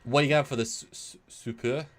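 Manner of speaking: Canadian attempt slipping into French; halting, unsure Canadian-French accent. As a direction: stumble into a French accent on "super". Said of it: "No, that's French".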